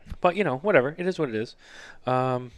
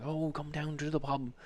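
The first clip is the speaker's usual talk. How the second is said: slow, softer coaxing invite; mimicking Irish relatives; 4 semitones higher, 8 dB quieter than usual. Father-in-law imitating the Irish relatives, slow coaxing invite. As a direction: lure him to the pub. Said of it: "he goes".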